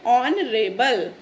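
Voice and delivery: ऑनरेबल drawn out very slowly, O sound first, no h; slow model word. Shown as a demonstration. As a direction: repeat ऑनरेबल slowly for the class. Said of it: "तो इसको हम कैसे pronounce करेंगे?". (ऑनरेबल धीरे-धीरे, ओ की sound से)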